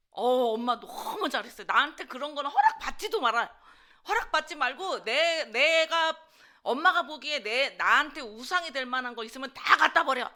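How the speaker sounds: loud, emphatic go-ahead to mom; eager approval. Acted. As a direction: act out wholehearted, insistent agreement. Acted ideal grateful reply to mom.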